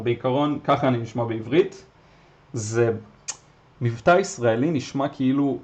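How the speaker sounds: fast Hebrew in his own voice; rapid natural Hebrew; speaking Hebrew. Shown as a demonstration. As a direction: show how he sounds in Hebrew. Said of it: "I can try".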